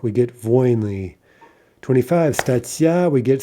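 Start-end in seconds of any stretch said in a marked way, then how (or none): 0.4-1.1 "voinly" with stress on the first syllable; stress jumped back. Shown as a demonstration. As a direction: say VOIN-ly for "voinly". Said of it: "Stress jumps back".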